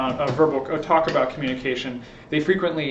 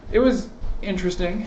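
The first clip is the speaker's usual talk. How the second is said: questioning inflection; 6 semitones higher than usual. Shown as a demonstration. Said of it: "depending on just inflection".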